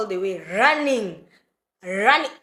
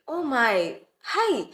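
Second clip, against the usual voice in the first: imitating mom; 9 semitones higher than usual. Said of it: "she was like".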